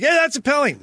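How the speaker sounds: high, loud mock complaint from the young players; mocking whiny protest. Alumni player mimics young skaters protesting a penalty, high mocking whine. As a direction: whine it like a kid crying foul. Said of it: "they'll be like".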